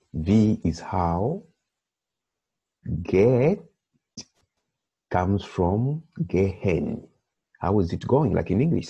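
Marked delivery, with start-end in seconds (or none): 0.1-7.1 slow teaching. Shown as a demonstration.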